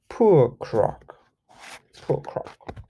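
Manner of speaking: tiny pitying mouse voices; mousy voices. Acted. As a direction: squeak it out with pity. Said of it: "And the mousies say".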